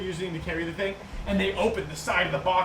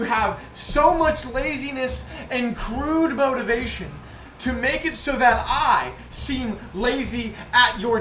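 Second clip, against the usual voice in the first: angry boss tirade; 4 semitones higher, 4 dB louder than usual. Acted. Goblin boss berating his workers.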